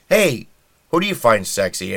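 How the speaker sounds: mock pollster calling across an office; calling out a poll. Asking women office workers at People, calling out.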